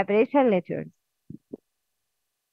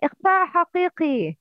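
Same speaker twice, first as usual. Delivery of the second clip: إخفاء حقيقي rattled off quickly; fast rule name; 4 semitones higher, much faster than usual. Shown as a demonstration. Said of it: "The rules of نون ساكنة".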